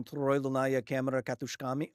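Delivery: "Troidlnaya Kamera Katushkami" pronounced as Russian; Russian pronunciation. Shown as a demonstration. Streamer explaining the tokamak acronym, "Troidlnaya Kamera Katushkami" in Russian pronunciation.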